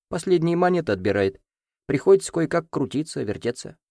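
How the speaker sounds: lightly voiced sly old headman; a hint of a wheedling village elder. Village elder pleading his case. (хитроватый староста)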